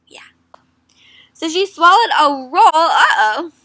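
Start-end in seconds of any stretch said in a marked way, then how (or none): 1.3-3.5 laughing through the words, louder. Real, not acted. Teacher laughing while reading the silly story. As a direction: giggle the line out.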